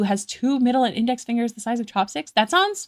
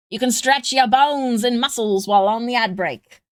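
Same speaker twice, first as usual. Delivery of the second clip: lightly voiced radio announcer; a hint of a vintage broadcaster; 3 semitones higher than usual. Real, not acted. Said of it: "Why do I sound like an old radio announcer?".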